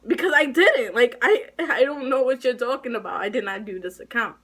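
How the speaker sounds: mildly heated retold protest; indignant outburst. Student retelling their protest at threatened suspension, indignant. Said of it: "I flipped the freak out".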